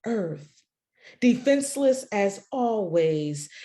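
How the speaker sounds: slow, weighty spoken-word delivery; poem reading. Acted. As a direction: read it like a performance poem. Recites her poem aloud.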